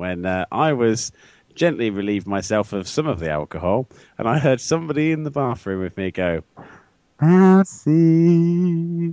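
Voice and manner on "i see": high, raised ghostly voice, "see" stretched out. Speaker recalling someone in the bathroom with him, imitating a ghostly voice. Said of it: "in a really ghostly voice".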